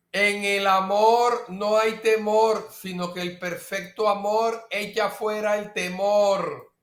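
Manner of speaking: leído con fuerza, como proclamando la Escritura; lectura bíblica proclamada. Shown as a demonstration. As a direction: proclama el versículo a la congregación. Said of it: "Vea, repítalo". (lectura proclamada del versículo)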